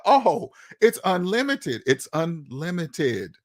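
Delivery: slow, awed discovery; dawning realization. Retold or imitated. Foreigner realizing America's potential, slow, awed whisper-like wonder. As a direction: savour each word as it sinks in. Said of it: "they're gonna be like".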